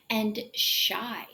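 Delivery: and shy, whispered; shy, under the breath. Shown as a demonstration. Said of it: "let's try some practice words".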